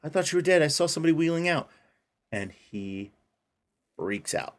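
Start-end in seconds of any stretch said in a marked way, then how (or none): 0.0-1.7 put-on cheery old man. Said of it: "He's like".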